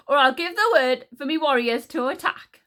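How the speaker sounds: high, loud queenly threat; angry threat. A narrator's reading. Queen threatening Encanso with her warriors, angrily.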